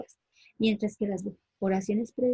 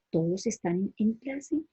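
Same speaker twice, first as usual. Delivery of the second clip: slow, with a rising question tune on "todos están en clase"; asked as a question; slower than usual. Shown as a demonstration. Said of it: "la oración interrogativa, puedo decir".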